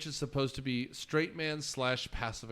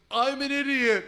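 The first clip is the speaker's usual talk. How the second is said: higher Grinch conceding; a touch of mock shouting; 9 semitones higher, 4 dB louder than usual. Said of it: "He goes".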